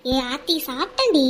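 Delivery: low-key, downcast insistence; voice off, upset. Acted. Friend fibbing to her worried friend about eating, subdued. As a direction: hide the upset while insisting. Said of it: "உன்னோட குரலே ஒரு மாதிரியா இருக்கு".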